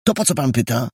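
put-on high, fast, indignant boyish protest; a boy angrily demanding the stranger let him go, high and fast. A narrator's reading. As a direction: snap back at him, hurry to be let go. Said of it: "rzekł ze złością".

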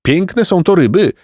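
high-pitched mournful pelican; lamenting. A narrator's reading. Second pelican mourning the lovely fish, lamenting. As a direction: bemoan it in a high bird voice. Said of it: "biadał drugi".

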